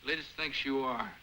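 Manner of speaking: "Liz thinks you are" said softly and slowly, pitch back down; soft, slow, almost to herself; quiet. Acted. Repeats line in two ways.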